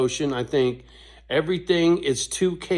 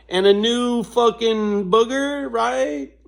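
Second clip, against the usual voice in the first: amused disbelief; 10 semitones higher, 5 dB louder, slower than usual. Real, not acted. Mocking new disease, laughing.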